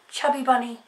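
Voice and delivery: talking round marshmallows; stuffed cheeks; mouth full. Real, not acted. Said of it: "talking with things in my mouth".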